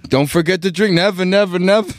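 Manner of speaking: sing-song fast food chef; Aki style. Retold or imitated. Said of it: "Can I get an Aki style?".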